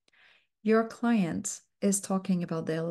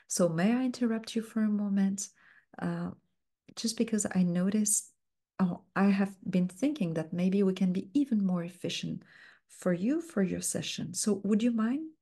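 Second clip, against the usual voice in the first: politely softened request; soft, gentle interruption. Shown as a demonstration. Coach modeling a soft interruption to the client. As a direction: ask permission gently and softly. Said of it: "with lots ... of softeners and talking very slowly".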